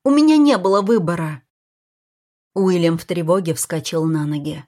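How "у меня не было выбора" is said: loud insistent cry; Kara shouts her excuse to William; shouting. Acted. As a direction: shout it out, desperate. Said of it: "крикнула Кара".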